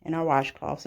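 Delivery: talking out of breath after running; breathless from running. Real, not acted. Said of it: "I'm out of breath".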